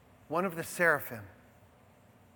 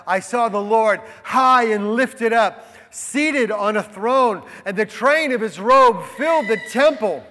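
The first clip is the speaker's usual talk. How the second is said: louder, grand proclamation of the vision; proclaimed reading; 2 semitones higher, 6 dB louder than usual. Acted. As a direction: announce the vision with full voice.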